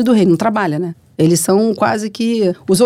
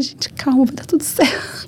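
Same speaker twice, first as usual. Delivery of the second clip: retold reassurance; 6 semitones higher, 4 dB quieter than usual. Retold soothing of alarmed crew.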